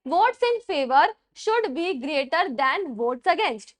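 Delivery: word by word, very slow, for students to write; spaced-out dictation pace. Shown as a demonstration. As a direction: dictate each phrase slowly with pauses. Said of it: "rule dictated slowly again".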